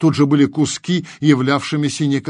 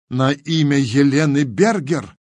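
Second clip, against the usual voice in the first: raised, emphatic exclamation; exclaimed; 2 semitones higher, 4 dB louder than usual. A narrator's reading. Tigran cutting in with the dead girl's name, exclaiming. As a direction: blurt the name in sudden recognition. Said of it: "воскликнул Тигран".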